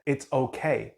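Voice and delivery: put-on tender parent soothing a crying toddler; comforting it's okay. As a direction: reassure with presence, not words. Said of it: "we're doing it more energetically".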